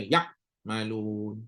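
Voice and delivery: Yak malun with the ayn dropped; wrong ayn sound. Shown as a demonstration. Teacher demonstrates the wrong ayn. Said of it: "Kena bagi bunyi".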